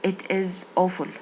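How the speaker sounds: It is awful said slowly, level; flat non-native tune. Shown as a demonstration. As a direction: drag out It is awful evenly. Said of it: "بيقول مثلًا". (نغمة مسطحة وبطيئة)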